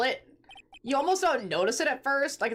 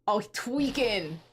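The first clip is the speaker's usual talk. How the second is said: slow, stretched-out words in usual pitch; drawn-out reaction; much slower than usual. Acted. Player reacting to the cornered villain, drawn out. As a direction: drag it out slowly. Villain losing composure, first take.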